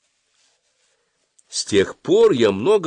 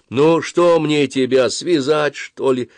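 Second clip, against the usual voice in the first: slow, higher, lightly plaintive question; 7 semitones higher, 4 dB louder, slower than usual. A narrator's reading. Exasperated dentist to a struggling boy, plaintively. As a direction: plead a little, drawing it out. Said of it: "жалобно спросила она".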